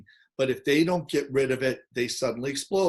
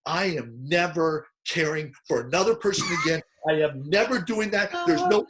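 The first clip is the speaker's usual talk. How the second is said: mock rant. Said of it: "when they do this rant".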